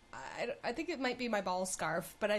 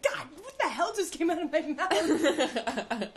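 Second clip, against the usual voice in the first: slow, mortified mutter as the guy; imagine his embarrassment, drawn out; a hint of an embarrassed stranger; regretful guy; 6 semitones higher, 4 dB louder, much slower than usual. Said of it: "the guy being like".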